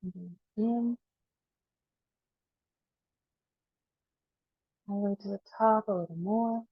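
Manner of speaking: unhurried guide with long pauses for breath; guided breathing meditation. Acted. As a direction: coax each inhale a little further, then release.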